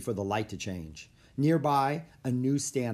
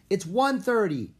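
high, loud answer; shouting back; 9 semitones higher, 6 dB louder than usual. A narrator's reading. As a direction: shout the time across the park. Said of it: "he shouted".

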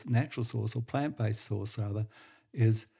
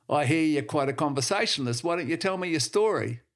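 businessman voice; 5 semitones higher, 4 dB louder than usual. Acted.

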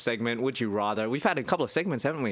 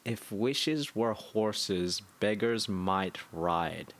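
slow, softer, savouring the Russian accent quote's words; slow musing echo; 3 semitones lower, 3 dB quieter, much slower than usual. Real, not acted. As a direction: repeat it slowly, pondering it. Repeating the quote slowly, musing.

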